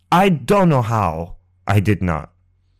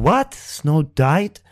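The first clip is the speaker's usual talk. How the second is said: sharp high rise on the first word, then fading; hearing a friend died, unable to take it in; stunned disbelief; 5 semitones higher, much slower than usual. Retold or imitated. Shocked disbelief at the news of a friend's death.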